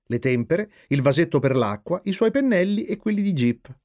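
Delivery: usual speaking voice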